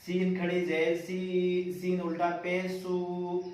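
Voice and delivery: slow sing-song syllable chant; qaida recitation. Shown as a demonstration. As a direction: recite each syllable evenly for pupils. Chanting drill.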